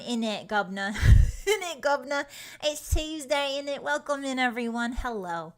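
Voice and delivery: a hint of hammed-up British; half-committed British accent, breaking into laughs; mock British accent. Streamer trying out British for viewers, mock British accent. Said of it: "giving up on the accent".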